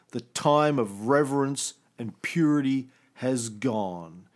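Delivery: dramatic poem reading. Acted. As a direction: declaim it like a prophet's grieving poem. Reads his translated poem aloud.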